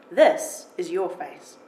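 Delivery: a hint of a heavy foreign accent, kind and curious; gentle heavily accented English, savouring the words. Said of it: "heavily accented English fills the room".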